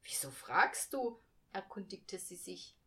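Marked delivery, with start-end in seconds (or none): 0.0-1.2 surprised mother. A narrator's reading. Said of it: "sah sie erstaunt an".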